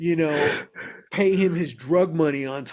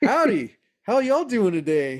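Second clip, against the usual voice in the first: put-on friendly Southern drawl, higher pitch; 4 semitones higher than usual. Retelling the first words said to the hotel security guards: imitating a friendly Southern greeting. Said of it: "this friendly Southerner".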